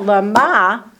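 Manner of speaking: "lama" as lə-MA, stress on the last syllable; "lama" accented on the end; lama with final stress. Shown as a demonstration. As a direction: put the weight on MA in "lama". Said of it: "to accent it like that".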